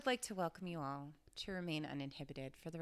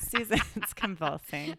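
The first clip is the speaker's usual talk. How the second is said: slow words through laughter; laughing out the words; 6 dB louder, slower than usual. Real, not acted. Laughing at Susan.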